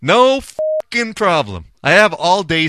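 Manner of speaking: high, emphatic, drawn-out relish; hammed-up delight; gleeful agreement. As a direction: agree with exaggerated eagerness.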